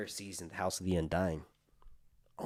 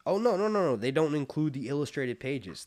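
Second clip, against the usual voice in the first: sudden surprise; 5 semitones higher, 4 dB louder than usual. Real, not acted. Realizes pages differ.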